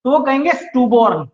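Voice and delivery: स्टूबॉर्न said stoo-born with a long oo and full or; wrong pronunciation. Shown as a demonstration. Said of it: "इसको प्रोनंशिएट कीजिए".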